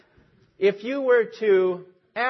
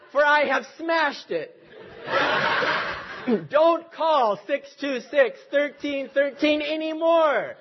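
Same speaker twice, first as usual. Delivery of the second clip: raised pitch, emphatic mock outrage; exasperated Reverend A J Jones; 5 semitones higher than usual. Fed-up pastor answers the misprinted ads, indignant and high. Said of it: "This is Mister Jones now".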